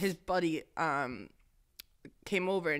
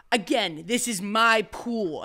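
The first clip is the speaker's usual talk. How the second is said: louder, drawn-out pool-owner impression; Tommy Kelly Junior; 3 semitones higher, 5 dB louder, much slower than usual. Retelling him claiming his pool once more, loud slow impression. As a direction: stretch out the repeated claim. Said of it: "He goes, he goes".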